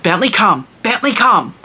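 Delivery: retold call, firm and carrying; calling the dog. Owner calling dog across the pool, firm recall.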